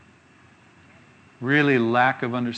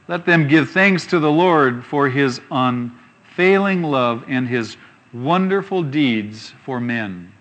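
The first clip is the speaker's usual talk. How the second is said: scripture reading; slower than usual. Acted. Preacher reads a psalm to the congregation, slow and solemn. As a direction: read the verse out slowly with weight.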